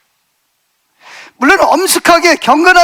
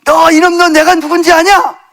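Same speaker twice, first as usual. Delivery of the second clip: louder and higher, a mock rebuking yell; retold shout; 5 semitones higher, 4 dB louder than usual. Preacher re-enacting yelling at a spirit on the mountain, a loud mock rebuke. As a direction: bellow it at the unseen thing on the pass. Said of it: "소리를 막 지르는 거예요".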